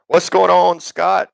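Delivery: a bright, high hello to a friend; high sing-song greeting. Real, not acted. Streamer greets viewer Scott in a high sing-song call.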